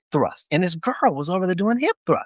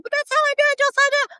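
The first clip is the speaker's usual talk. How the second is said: very high falsetto recruit voice; girl impression. Female recruit answering drill sergeant, squeaky falsetto impression. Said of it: "his universal girl impression".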